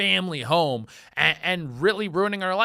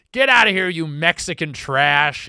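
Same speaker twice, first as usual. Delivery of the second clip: angry yell; 7 dB louder than usual. Retold or imitated. Woman yelling at a family taking photos, loud furious shout. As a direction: bark them off the property like a furious homeowner. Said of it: "She goes".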